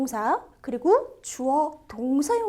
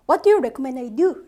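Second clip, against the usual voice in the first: slow louder reading; 7 dB louder, much slower than usual. Shown as a demonstration.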